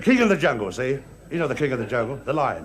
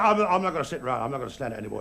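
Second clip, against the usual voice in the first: fed-up gorilla; 7 semitones lower, 5 dB quieter than usual. Acted. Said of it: "this gorilla looked at the elephant".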